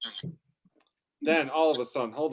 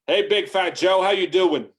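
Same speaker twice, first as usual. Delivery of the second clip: loud, high hail; shouted out; 7 semitones higher, 8 dB louder than usual. Acted. Trucker pulled up beside his rival, shouting out a greeting. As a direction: holler it across to the next truck. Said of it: "and I shouted out".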